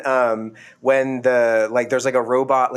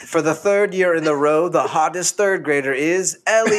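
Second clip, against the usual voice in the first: lightly put-on ceremony host, amused; mock award announcer; 3 semitones higher than usual. Host crowning Ellie hottest third grader, mock grandly through laughs. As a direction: pretend presenter building up to the winner.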